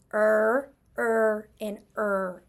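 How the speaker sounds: "er" said three times, isolated and held; sound demo. Shown as a demonstration. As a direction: model the R-controlled "er" sound. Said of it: "they all sound the same when they're R controlled".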